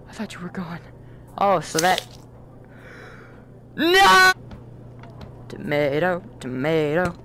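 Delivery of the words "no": dismayed. Real, not acted.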